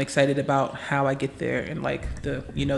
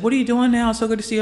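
a lightly higher, brighter greeting voice; cheerful professor; 8 semitones higher, 4 dB louder, faster than usual. Retold or imitated. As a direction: greet her like a delighted old professor.

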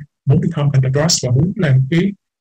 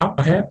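up ahead with a light rise; lifted intonation; 4 semitones higher than usual. Shown as a demonstration. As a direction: lift "up ahead" gently, excited. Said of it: "nó có cái intonation nhẹ lên ha". (lên giọng nhẹ ở "up ahead")

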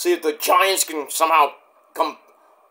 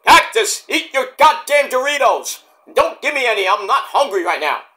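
irritated Cherry; 4 semitones higher than usual. Acted. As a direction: shoo him away impatiently. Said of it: "Mick Foley impersonation".

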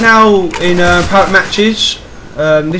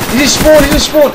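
sharp raised callout to the team; urgent callout; 8 semitones higher than usual. Real, not acted. Urgent callout mid-match.

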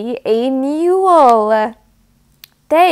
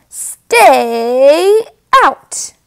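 louder, bossy stay out; mock stern pig; 3 semitones higher, 5 dB louder than usual. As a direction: shoo the goat away, mock cross. Pig refuses to share.

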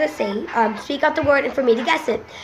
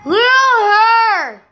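louder, higher repeat; 5 semitones higher, 3 dB louder, much slower than usual. Real, not acted.

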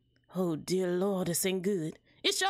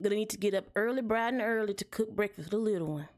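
lightly Southern busy mama; brisk mother with a hint of Southern accent; quick, lightly Southern character voice. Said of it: "giving my characters that southern accent".

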